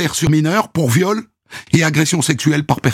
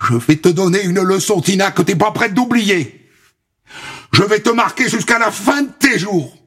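raised, shrill vicious threat; shrill screeching bird woman; 5 semitones higher than usual. Acted. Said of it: "cris de harpie". (menace stridente)

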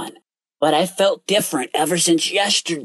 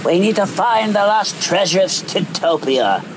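rough commanding pirate captain; 4 semitones lower than usual. Acted. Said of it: "rough and commanding voice as he yelled".

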